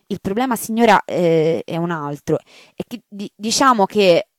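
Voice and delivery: the maid afraid to tell the marchioness; hesitant maid. Acted. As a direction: stumble over how to say it. Maid tangled up.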